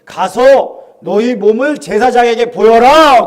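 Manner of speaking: slow, calm, authoritative; Jesus's calm command. Retold or imitated. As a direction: say it slowly and gently with authority. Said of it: "뭐라 그러셔요?".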